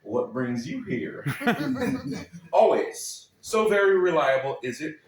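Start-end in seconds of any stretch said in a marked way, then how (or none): 0.0-1.2 slow, easy Texan drawl with a laugh in it; friendly Texan question. Retold or imitated. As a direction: ask it like a welcoming Texan neighbour. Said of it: "the question would be".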